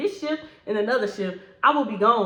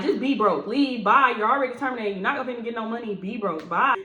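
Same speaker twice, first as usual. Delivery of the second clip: dismissive brush-off; 2 semitones higher, 3 dB louder than usual. Retold or imitated. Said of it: "I'm like".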